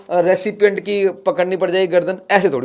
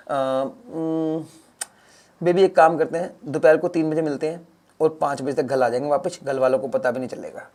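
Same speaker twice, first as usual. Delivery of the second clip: soft, low secret planning; hushed plotting; 3 semitones lower, 6 dB quieter than usual. Acted. Boyfriend quietly planning a secret date with his girlfriend. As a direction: keep it low so the family won't hear.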